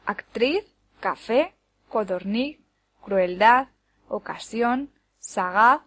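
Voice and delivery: each word from Actriz to sagaz stressed on its final syllable; stress on last syllables. Shown as a demonstration. Teacher gives examples of agudas, Actriz to sagaz stressed at the end. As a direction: list Actriz, café, codorniz, crueldad, ocasión, sagaz separately, landing on each ending. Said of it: "llevan la sílaba tónica en la última".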